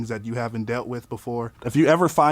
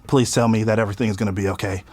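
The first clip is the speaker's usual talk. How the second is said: pleading; 5 semitones lower, much faster than usual. Retold or imitated. Begging girlfriend during bad trip.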